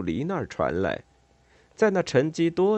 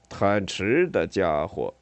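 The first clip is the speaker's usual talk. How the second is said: low, slow otter voice; otter character; 4 semitones lower, slower than usual. Acted. 水獭沃特尔登场说话.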